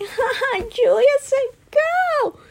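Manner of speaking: high, put-on mocking voice, slow; mocking laugh. Teammate mocking Julia for shouting go, high taunt. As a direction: taunt her in a sneering sing-song. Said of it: "laughing at me".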